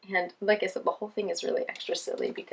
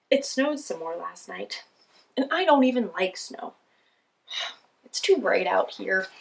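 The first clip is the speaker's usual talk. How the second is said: grumpy penguin voice; 3 dB louder than usual. Acted.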